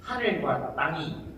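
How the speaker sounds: slow, grave delivery of a quoted line; lightly dramatic recitation. Retold or imitated. Quoting a Jeolla line from a novel, slow and grand. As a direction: read it out slowly with grand weight. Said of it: "이렇게 인용했습니다".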